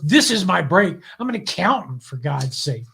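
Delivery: mildly indignant imitated complaint; upset, retold. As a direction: protest like a wronged amateur, lightly acted. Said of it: "the woman was really upset".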